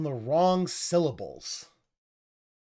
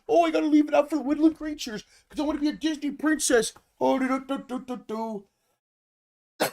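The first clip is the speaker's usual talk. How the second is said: much higher, louder, fast princess voice; mocking impression; 10 semitones higher, 4 dB louder, faster than usual. Mocking him as a Disney princess to chat. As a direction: ham up a dreamy wannabe Disney princess. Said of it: "he's gotta leave this stuff out".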